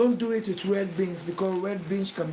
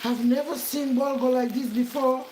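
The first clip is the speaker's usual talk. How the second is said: high, delighted gasp of surprise, then amazed; amazed ooh; 4 semitones higher than usual. Pretend. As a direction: play the impressed first taster. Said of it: "you will say".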